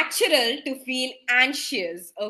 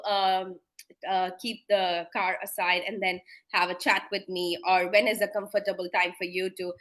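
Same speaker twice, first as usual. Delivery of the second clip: polite phone doctor; 5 semitones lower than usual. Shown as a demonstration. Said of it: "This is how you have to carry your station".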